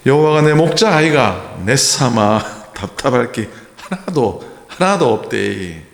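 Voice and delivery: a Gyeongsang man's blunt take, slowing at the end; Gyeongsang dialect. Retold or imitated. Pastor laughing through a mock Gyeongsang psalm. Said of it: "경상도 버전입니다".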